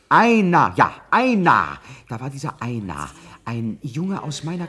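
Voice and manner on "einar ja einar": sudden recognition. Acted. Erkennt plötzlich den Namen.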